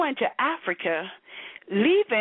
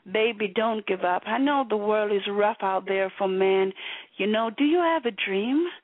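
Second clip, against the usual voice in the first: put-on sweet encouraging girlfriend. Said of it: "your cyberspace girl is the one who say".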